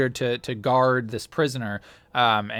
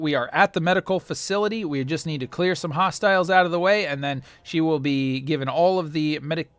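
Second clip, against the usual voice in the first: stormtrooper insisting; 3 semitones higher than usual. Acted.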